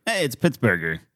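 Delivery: put-on light New York accent. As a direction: say it like a New Yorker. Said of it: "borderline New York accent on it".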